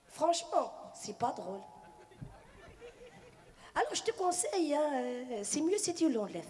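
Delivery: a hint of a refined Casa lady giving advice; posh Casablanca woman. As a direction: sweetly suggest she cut the bit. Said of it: "bon chic, bon genre de parler".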